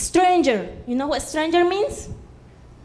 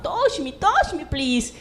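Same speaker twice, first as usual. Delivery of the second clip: pleading dog. Acted. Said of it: "he was like a snake".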